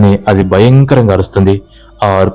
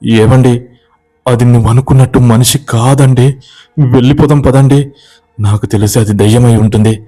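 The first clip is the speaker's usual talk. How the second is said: mild frightened pleading, pitched higher; 4 semitones higher than usual. Acted. Wife begging husband to go, mildly fearful. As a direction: urge him to leave, a touch scared. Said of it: "అని భయపడుతుంది".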